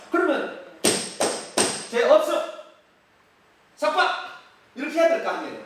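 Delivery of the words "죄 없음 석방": high, loud ruling; mock verdict. Preacher voicing Felix declaring Paul free, a loud ruling. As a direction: announce the verdict boldly.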